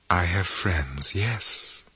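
soft, slow and dreamy. Acted. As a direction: drift through it, half asleep. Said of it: "she said almost dreamily".

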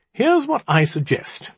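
bright, high-pitched proposal. A narrator's reading. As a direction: pitch it up, cheerfully taking charge. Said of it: "I said brightly".

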